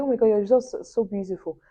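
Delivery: sister gushing, high and bright at first; excited sister. Retold or imitated. Sister breaking the result news, excitedly gushing. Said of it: "And she's like".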